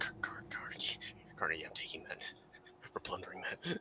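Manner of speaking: low, breathless whisper under the breath.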